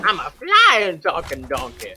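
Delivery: loud, slow, drawn-out boast; boastful donkey. Retold or imitated. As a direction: stretch out the proud announcement. Acted Donkey boasting in the air.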